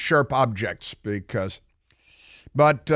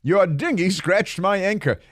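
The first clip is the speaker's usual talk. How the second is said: Rodney Dangerfield; 5 semitones higher than usual. Retold or imitated. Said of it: "my Rodney Dangerfield".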